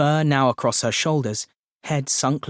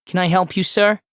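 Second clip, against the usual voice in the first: high-pitched nasal drawl; drawled nasal query, pitched right up; nasalized drawl; 7 semitones higher, 4 dB louder than usual. A narrator's reading. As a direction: offer help in a high, nasal voice. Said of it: "A nasalized drawl comes from behind him".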